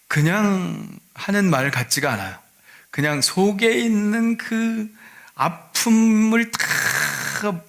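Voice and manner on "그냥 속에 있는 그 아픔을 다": high, slow, strained voice; anguished cry. Acted. Mother's heart crying out to Jesus, slow and high. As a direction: draw the pain out slowly, pitched up. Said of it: "합쳐서 소리를 지르셨을 것 같아요".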